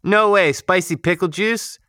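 surprised. Real, not acted. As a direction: react in amazed disbelief. Amazed reaction to the news.

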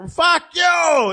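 driveway shouting match, mock yell; retold neighbor shout. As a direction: imitate the neighbor yelling. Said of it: "And they reply back".

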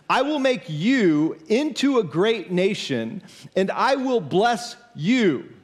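slow, deliberate reading in short measured phrases; scripture reading. Acted. Preacher reading God's promise to Abram, slow deliberate scripture reading. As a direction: read it solemnly, phrase by phrase, with pauses.

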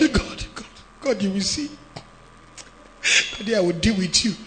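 low, hushed bitter threat at God; bitter mutter. Retold or imitated. Disappointed man grumbling quietly at God, bitter. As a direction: mutter it under your breath, bitter. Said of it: "You must say".

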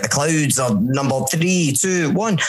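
slow countdown, rising high at the end; lightly voiced hypnotist counting down; hypnotist impression. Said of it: "I'll do my best impression of him".

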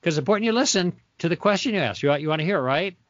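playful quick check-in; joking, light and fast. Shown as a demonstration. To the interrupting skeptic, joking and quick. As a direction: tease them gently to calm things down. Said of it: "I'll even joke with them".

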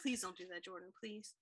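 hushed, understated imploring; softly beg, trailing down on the last please; retold plea. Co-host retelling her warning to host, quiet plea. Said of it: "And I'm like".

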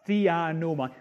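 "theanomai" said carefully as Greek; attempted Greek accent. Shown as a demonstration. Preacher repeating the original word, attempted Greek accent. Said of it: "I'll try and say it".

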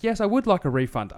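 a hint of a stiff robot voice; robot back. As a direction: answer the bot like a bot. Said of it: "You're being robot back".

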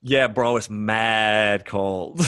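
drawn-out New York slang; mock New York bro talk; New York accent. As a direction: stretch it like a New Yorker.

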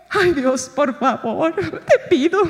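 laughing, jittery little prayer; nervous pleading. Pretend. Preacher imagining herself as Elijah, nervously pleading. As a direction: beg God with a nervous laugh. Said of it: "nerviosa, clamando, suplicando".

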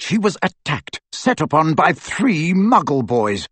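pent-up account, pitch rising on emphatic phrases; embittered old wizard. Acted. Aberforth telling of his sister's attack, agitated. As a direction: let the held-back story burst out. Plays Aberforth bursting into speech.

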